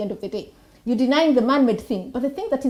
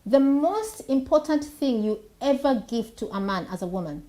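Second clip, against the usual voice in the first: soft soothing healer; 2 semitones lower than usual. Real, not acted. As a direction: speak like a calm energy healer. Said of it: "I'm now talking like an energy healer".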